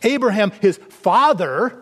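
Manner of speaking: Abraham, his father, stressed and slowed; emphasis. Shown as a demonstration. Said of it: "Get the, the emphasis here now".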